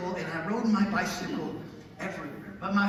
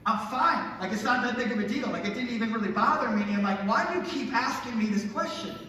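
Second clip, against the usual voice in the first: mild frustration; 2 semitones higher than usual. Retold or imitated. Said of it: "kinda getting frustrated".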